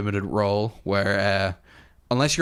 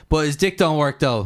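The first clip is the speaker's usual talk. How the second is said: Sansa; 5 semitones higher, 4 dB louder than usual. Retold or imitated. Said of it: "and Sansa went".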